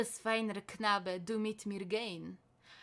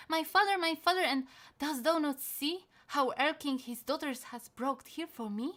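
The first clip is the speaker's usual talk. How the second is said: put-on child's cry, higher and louder; frightened child; 5 semitones higher, 4 dB louder than usual. Child begging father to see Erlking, frightened cry. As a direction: call out to father in fear.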